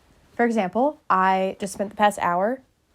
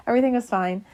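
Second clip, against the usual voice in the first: laughing it off, quick and a bit higher; giggly, brushing it off; 4 semitones higher, faster than usual. Real, not acted. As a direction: repeat it through a laugh, amused at yourself.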